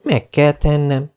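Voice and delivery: put-on high, slow solemn girl voice; solemn declaration. A narrator's reading. Anne solemnly accepting the dare, high and slow. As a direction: declare it like a vow. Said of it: "jelentette ki Anne ünnepélyesen".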